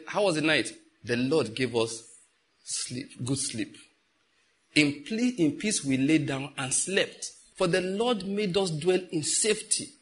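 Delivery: slow, reverent scripture reply; model answer. Shown as a demonstration. Preacher showing the faithful morning reply, slow and reverent. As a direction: answer the greeting with a calm psalm. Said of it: "Good answer in the morning".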